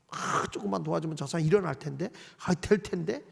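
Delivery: low, quiet wishful thinking; soft sympathetic musing. Acted. Helper musing over a hard worker, soft and wishful. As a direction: think aloud softly, hoping to help.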